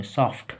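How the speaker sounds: सॉफ्ट said softly, clear ट at the end; model pronunciation. Shown as a demonstration. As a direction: pronounce सॉफ्ट with a crisp ending. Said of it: "इसका उच्चारण बस आप जान लो". (सॉफ्ट का साफ़ उच्चारण)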